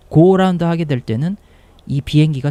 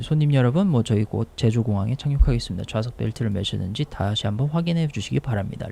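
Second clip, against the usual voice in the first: lightly voiced cabin crew PA; a hint of a flight attendant's in-flight announcement; 2 semitones lower than usual. Shown as a demonstration. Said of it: "이거 원래 객실 승무원 피에이인데". (승무원 기내 방송 말투)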